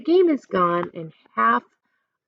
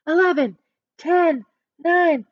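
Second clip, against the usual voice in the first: yelled countdown; 8 semitones higher, 4 dB louder than usual. Acted. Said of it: "the crowd yelled".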